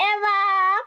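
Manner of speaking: high, drawn-out melodramatic cries; mock-panicked calling. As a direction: call out names in hammed-up alarm. Same mimicked call, repeated.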